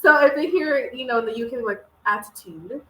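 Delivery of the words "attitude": "attitude" slowed, with an "ooh" vowel; UK pronunciation. Retold or imitated. Imitating how UK speakers say it, "attitude" drawn out. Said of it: "they have, like, ooh with it".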